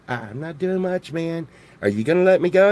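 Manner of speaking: laid-back toad voice, starting very soft; chill horny toad. Acted. Toad to the person holding it, chill. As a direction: play it as a mellow, unbothered little critter. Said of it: "they're really chill, man. They're like".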